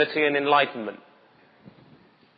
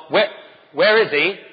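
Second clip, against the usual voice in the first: bewildered guard; 4 semitones higher than usual. Retold or imitated. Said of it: "they come back with the response".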